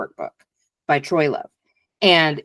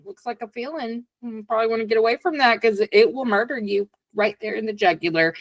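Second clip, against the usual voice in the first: subconscious alarm voice; 5 semitones higher than usual. Retold or imitated. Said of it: "it was like".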